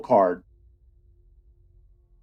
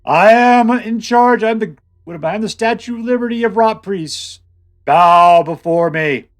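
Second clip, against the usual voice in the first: dark lord; 5 semitones higher, 7 dB louder than usual. Retold or imitated. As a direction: proclaim it like a tyrant demanding worship. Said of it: "This guy's like".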